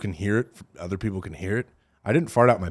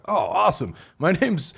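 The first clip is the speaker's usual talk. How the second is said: mock Indian accent; 7 semitones higher than usual. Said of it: "starts talking in Indian accent".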